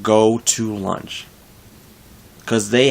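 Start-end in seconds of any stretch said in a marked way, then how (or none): 0.0-1.3 slow, deliberate instruction; straight up. Pretend. Supervisor-to-be telling workers to take lunch, straight up. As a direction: say it straight, drawing out each word. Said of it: "I'm gonna tell him straight up".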